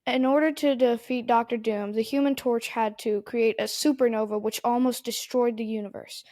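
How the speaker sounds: reciting like a robot. Real, not acted. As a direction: read it like Wikipedia. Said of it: "why'd you say that like Wikipedia".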